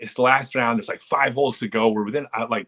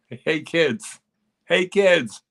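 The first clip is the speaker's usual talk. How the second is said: mock callback yell; 7 semitones higher, 3 dB louder, much slower than usual. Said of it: "callback to punchline".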